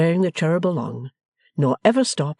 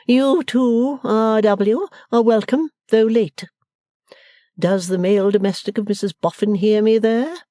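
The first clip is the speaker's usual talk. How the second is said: loud, higher-pitched stately voice; ceremonious matron; 8 semitones higher, 4 dB louder than usual. A narrator's reading. Missus Wilfer greeting her husband and hailing a servant, imperious. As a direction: proclaim it with grand ceremony. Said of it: "ghostly gloom and all her other appliances of ceremony".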